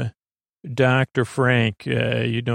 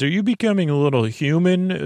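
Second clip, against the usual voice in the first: mildly raised, higher-pitched incredulous-style question; retold loud question; 5 semitones higher than usual. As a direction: imitate a loud question without really shouting. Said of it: "He says it very loudly".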